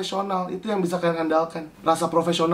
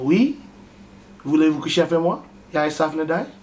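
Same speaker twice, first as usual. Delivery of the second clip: a bit of French. Shown as a demonstration. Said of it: "yang terakhir jelek banget".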